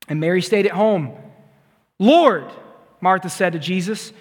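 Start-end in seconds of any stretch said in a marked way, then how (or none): 2.0-2.4 upset. Acted. Martha confronting Jesus, angry.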